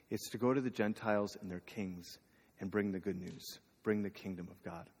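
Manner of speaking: earnest correction. Retold or imitated. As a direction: gently hand him the real mission. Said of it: "doesn't just show up to Saul and be like".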